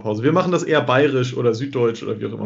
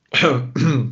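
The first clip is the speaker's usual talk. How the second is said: coughing to clear a choked throat; throat clearing after swallowing wrong; 2 semitones higher than usual. Real, not acted. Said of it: "hab mich verschluckt".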